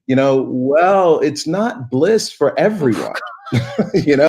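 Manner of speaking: a smile behind bitter words; smiling voice. Real, not acted. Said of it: "I can hear the smile in your voice".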